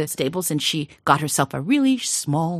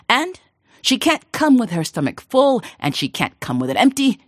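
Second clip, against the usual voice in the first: amused king; 4 dB louder than usual. Acted. Amused king sets riddle.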